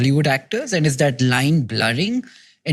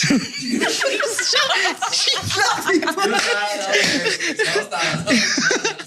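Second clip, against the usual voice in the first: shrieking high laughter. Real, not acted. Host bursts out before retake.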